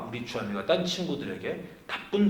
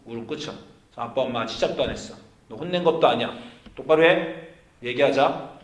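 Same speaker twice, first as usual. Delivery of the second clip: stern. Retold or imitated. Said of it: "이제 엄하게 했습니다".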